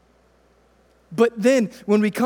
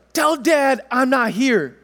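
imitating his daughter; 4 semitones higher, 3 dB louder, slower than usual. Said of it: "Jada's like".

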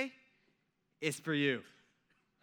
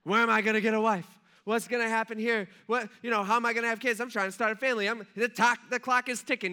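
louder, higher exasperated rant at God; mock frustrated outburst, loud and raised; exasperated complaint; 4 semitones higher, 5 dB louder than usual. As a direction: vent like a frustrated single guy. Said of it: "he's just like".

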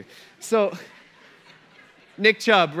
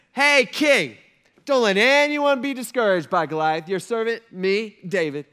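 put-on eager teenage boy, high and loud; David; 4 semitones higher, 7 dB louder than usual. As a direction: call out brashly to the king. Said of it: "This is a sixteen-year-old kid".

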